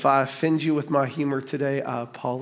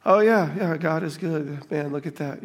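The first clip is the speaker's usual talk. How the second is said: mock lukewarm praise. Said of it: "where it's like".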